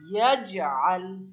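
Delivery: slow, loud ইয়াজআল with জ bounced mid-word; measured ইয়াজআল with an echo after জ; qalqalah recitation. Shown as a demonstration. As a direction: push off the j, then lengthen the end of ইয়াজআল. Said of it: "একটা ধাক্কা দিলাম".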